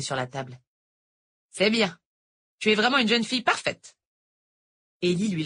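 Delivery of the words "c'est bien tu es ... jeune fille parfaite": lightly voiced older teacher; a hint of a sweet Irish tutor; sweet-talking teacher, lightly voiced; teacher Noël. A narrator's reading.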